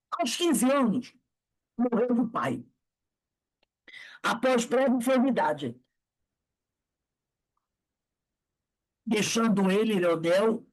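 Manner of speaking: measured reading with pauses between phrases; book reading aloud. A narrator's reading. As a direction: read the life story out, phrase by phrase.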